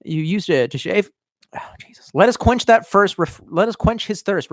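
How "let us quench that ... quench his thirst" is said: pitchman voice. Pretend. Mock pitchman oil ad.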